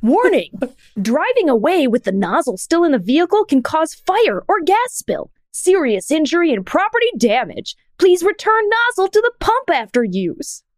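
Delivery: clownish warning with swooping pitch; goofy Comic Sans voice. Shown as a demonstration. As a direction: read a serious warning sign like a goofing clown. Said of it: "sounds like when I try to do".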